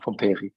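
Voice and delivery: Pomperi said as pom-PAY-ree; correct surname pronunciation. Shown as a demonstration. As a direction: end Pomperi on a "ree" sound. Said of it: "it's a difficult pronunciation".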